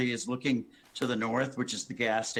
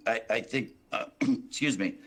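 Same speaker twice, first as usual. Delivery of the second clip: hoarse, clearing the throat. Real, not acted. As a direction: speak through a hoarse throat. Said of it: "I have a hoarse voice here".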